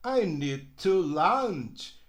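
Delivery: slow, careful I need to lunch; no flap between need and to; no linking. Shown as a demonstration. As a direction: model sentence for the class. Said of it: "não dá pra emendar o D com o T".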